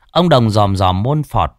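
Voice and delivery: ordinary delivery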